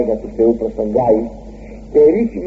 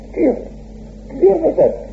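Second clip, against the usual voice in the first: lifted high, tender; gentle exhortation. Acted. Preacher echoing God to Cain, high and tender.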